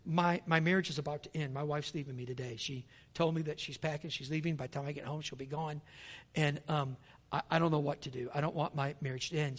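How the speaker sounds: low, quiet, troubled voice; a man whose wife is leaving; distressed confession. Retold or imitated. Husband confiding his broken marriage, quiet and troubled. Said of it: "He said".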